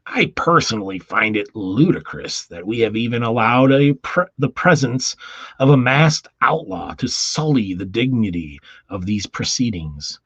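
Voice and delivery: mock furious official. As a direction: huff it out like an offended bigwig. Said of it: "He's, he's furious".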